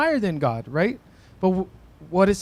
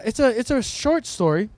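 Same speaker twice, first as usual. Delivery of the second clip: ordinary talk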